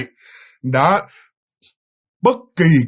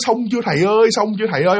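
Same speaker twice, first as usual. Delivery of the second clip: anxious husband's plea; 6 semitones higher, faster than usual. Retold or imitated. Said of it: "Ông cứ nhấp nhẩm nói".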